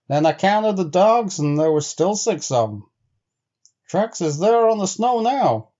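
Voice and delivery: an uneasy man pushing his friend to look; Bill, growing insistent. Acted. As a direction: build to pressing the point hard. Bill insists he saw tracks.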